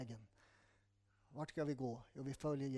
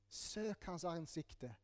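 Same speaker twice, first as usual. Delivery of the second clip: slow and much softer, lingering on each word; slow, soft urging; 6 dB quieter, much slower than usual. Shown as a demonstration. Preacher urging the congregation, slow and soft. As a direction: let the call sink in gently, very slowly. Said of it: "står det i Bibeln".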